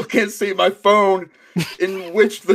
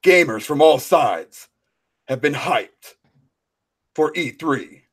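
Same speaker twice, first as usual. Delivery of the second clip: Kratos voice; 3 semitones lower than usual. Pretend. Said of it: "Now you sound like Kratos".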